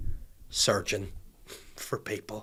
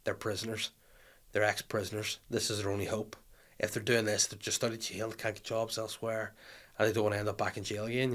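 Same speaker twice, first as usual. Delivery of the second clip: inner voice; 9 dB quieter than usual. Retold or imitated. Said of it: "I think to myself".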